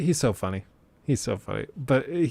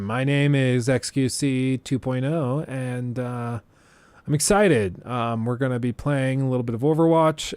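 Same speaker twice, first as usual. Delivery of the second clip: mock streamer intro. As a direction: play a cheesy streamer hyping his own stream. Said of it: "his would be more like this".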